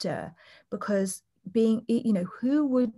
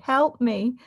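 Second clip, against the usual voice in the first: pleading; 5 semitones higher, 5 dB louder than usual. Retold or imitated. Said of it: "look me dead in the eye and say".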